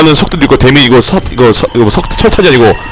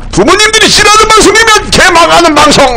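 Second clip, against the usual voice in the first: very high, sustained screech; eardrum-testing yell. Pretend. Streamer mocking a show parents hate, piercing yell. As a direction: scream the line out at the top of your range. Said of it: "고막 단련엔 좋아요".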